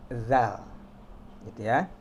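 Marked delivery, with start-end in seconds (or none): 0.1-0.6 "zal" like voiced th; emphatic dental "zal"; tongue between teeth. Shown as a demonstration. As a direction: buzz "zal" on a bitten tongue. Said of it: "Ditaruh aja di antara dua gigi".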